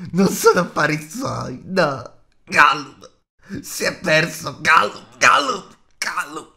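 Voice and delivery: loud, high wail with choking gulps; screech, then choke out the name; strillo di creatura. A narrator's reading. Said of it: "strillò Gollum". (strillo lamentoso con singulti di gola)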